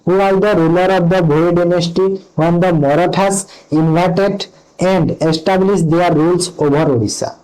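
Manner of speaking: slow, careful question read-out; reading a quiz question. Acted. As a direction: read each word out deliberately. Reads quiz question aloud slowly. (ଧୀରେ ଧୀରେ ପ୍ରଶ୍ନ ପଢ଼ିବା)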